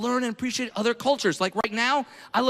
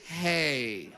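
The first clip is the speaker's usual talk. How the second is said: condescending; 3 semitones lower than usual. Retold or imitated. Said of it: "you're turning to that group and you're saying".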